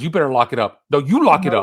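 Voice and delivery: mock bickering, leaning on YOU in the comeback; acted back-and-forth. Two buddies saying the same thing to each other, mock squabble. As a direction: throw the challenge straight back. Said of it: "back and forth between John and Jeremy".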